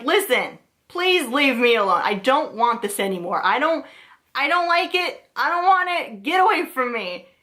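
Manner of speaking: begging the thing to leave, going up in pitch; scared pleading. Retold or imitated. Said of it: "and I was just like".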